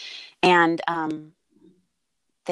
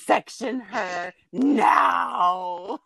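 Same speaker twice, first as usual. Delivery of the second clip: urgent order; much slower than usual. Retold or imitated. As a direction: bark it out like a doctor in an emergency. Doctor orders emergency section.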